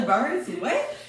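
mimicking through giggles; laughing imitation. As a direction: quote her while laughing. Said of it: "Jada said".

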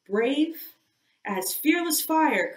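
high, loud bold sailor's cry; cried out boldly. Acted. Second mate answering his captain's challenge, a loud bold cry. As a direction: fling the answer back full of bravado. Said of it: "cried Stubb".

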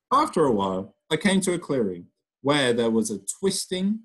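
lively storytelling voice, characters acted out; reading to children. Teacher reading a story aloud to her pupils, lively storybook voice. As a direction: read it like a picture book to a class.

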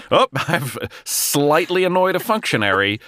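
high, hammed-up fretful toff; mock fretting. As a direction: play it as a fussy, put-upon gent. Mocks the character's worry.

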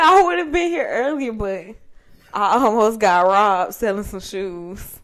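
imitating his excuse, slow; hammed-up excuse; mocking retelling.

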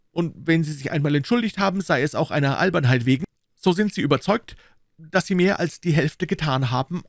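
high, lively proud retort; D'Artagnan. A narrator's reading. Young Gascon refusing to be humbled, high and proud.

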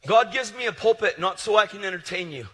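loud, high preaching; full-force pulpit preaching; fiery preaching. Acted. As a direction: preach it hard to the crowd.

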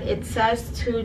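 hands covering mouth; speaking into palms; muffled through hands. Real, not acted. Seen 0: Fingers cover mouth and nose 0.4–1.1s while rubbing face.

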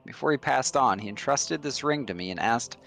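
lightly voiced smooth schemer, calm and knowing; sly stranger voice. A hint of a scheming sage confronting Esther about her past.

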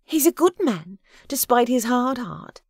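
high, pleading prayer in character; fervent, pleading Agatha. A narrator's reading. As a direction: plead earnestly with God on his behalf. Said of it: "her voice was fervent and pleading".

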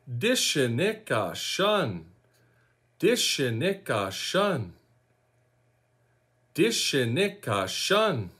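Dishinika Shun as dih-shih-NEE-ka SHUN, syllable by syllable; teaching pronunciation. Shown as a demonstration. Teacher showing learners what follows the name, careful dih-shih-nee-ka SHUN. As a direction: model "Dishinika Shun" carefully, last word falling. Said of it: "then you're gonna say".

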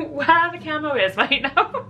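lightly attempted, playful American accent; a hint of a badly faked American accent. Vlogger losing track of the camera mid-take, half-hearted American accent. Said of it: "decided to do an American accent".

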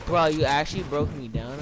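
loud, exasperated gamer outburst; loud exclamation. Real, not acted. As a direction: blurt it out loud, annoyed. Complaining after being knocked down.

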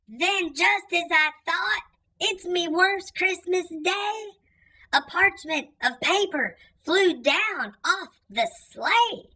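put-on lively read-aloud for kids, rhythmic verse; cozy storyteller reading rhyming verse; storybook reading. A narrator's reading. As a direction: read it like a bedtime story for children. Reads a rhyming Christmas story aloud.

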